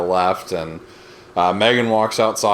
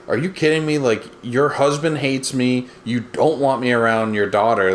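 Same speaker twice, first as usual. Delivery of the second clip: indignant protest; 4 semitones higher than usual. Retold or imitated. Retells his indignant protest.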